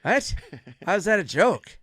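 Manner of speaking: confused disbelief; baffled. Retold or imitated. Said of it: "Norm's like".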